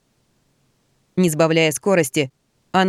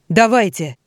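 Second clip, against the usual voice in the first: louder barked order; shouted command; 2 semitones higher, 4 dB louder than usual. Acted. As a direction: call the signal to attack. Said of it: "крикнул Ксандр".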